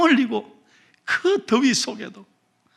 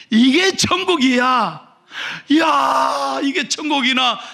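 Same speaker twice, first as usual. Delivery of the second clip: amazed exclaim; 5 semitones higher, 5 dB louder, slower than usual. Acted. Deaconess marvels at heaven.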